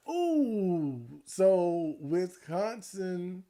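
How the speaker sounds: talking round a peppermint; peppermint in mouth. Real, not acted. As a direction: mouth full of candy.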